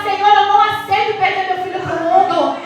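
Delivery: firm, pleading prayer that rises toward "fiel"; fervent prayer. Shown as a demonstration. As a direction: refuse to lose the son, pray with full conviction. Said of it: "Você tem que entrar na pele dele e falar".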